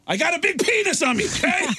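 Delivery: hammed-up confession; mock exasperated admission. Drummer admits to bandmates.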